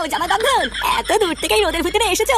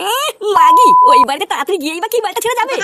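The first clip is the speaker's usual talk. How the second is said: loud, rude retort; angry snap; 6 dB louder than usual. Acted. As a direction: bark it back at her. Son snaps at his wife.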